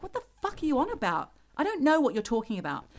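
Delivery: angry retort. Retold or imitated. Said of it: "I got really angry with her".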